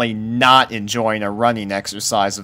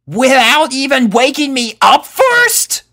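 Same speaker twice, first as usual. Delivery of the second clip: high, loud indignant question; temperamental; 7 dB louder than usual. A narrator's reading. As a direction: demand an answer, indignant. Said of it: "temperamental blue Pegasus".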